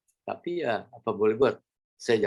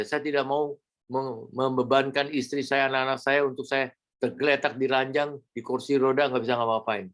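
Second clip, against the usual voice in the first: earnest prayer; 2 semitones higher than usual. Retold or imitated. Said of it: "Tapi saya bilang".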